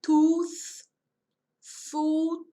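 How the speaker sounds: tooth and foot with a long oo vowel; teacher models the oo vowel in tooth and foot; long U sound. Shown as a demonstration. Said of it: "a pronúncia é de U".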